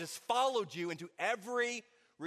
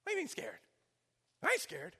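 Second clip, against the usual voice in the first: put-on higher, softer defensive boy's voice; a nine-year-old bristling at being called scared; boy's indignant denial; 10 semitones higher, 5 dB quieter than usual. Boy to his dad at dinner, high indignant denial. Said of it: "I was like".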